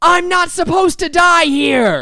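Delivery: shrill yell, very high pitched and very loud. Recounting a player who got worked up at the game table, retelling a shout. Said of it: "he quite literally shouts".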